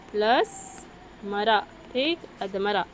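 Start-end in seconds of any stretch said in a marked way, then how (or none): 0.1-1.6 slow breakdown. Shown as a demonstration.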